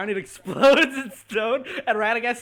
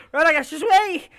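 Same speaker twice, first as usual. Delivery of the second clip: pleading, calling out, higher and louder; 9 semitones higher, 7 dB louder than usual. Voicing a character calling after a fleeing companion: pleading call to wait. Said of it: "and she goes".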